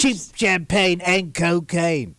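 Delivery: sleazy British barman. Pretend. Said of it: "you're a different person in your mind".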